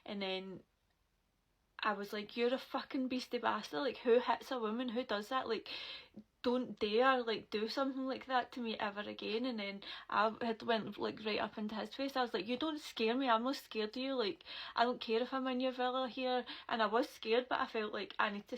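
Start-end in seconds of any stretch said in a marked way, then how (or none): 2.4-9.4 retold furious telling-off. Retold telling off after attack. 12.5-16.4 retold defiance. Retold defiance in his face.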